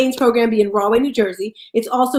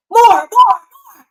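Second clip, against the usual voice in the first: high slow voice; 9 semitones higher, 7 dB louder, much slower than usual. Retold or imitated. God pushing more ideas.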